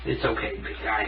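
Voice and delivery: soft, soothing words to a nervous pet; comforting tone. Real, not acted. Owner soothing the cat in the bath, soft and comforting. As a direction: hush him gently so he stays calm. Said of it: "talk to them in, like, a comforting tone".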